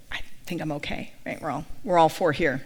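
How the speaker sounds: low, quiet, halting retold reply; murmured, reluctant brush-off; hesitant polite refusal. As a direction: demur softly and awkwardly. Reluctant reply to serious officiant.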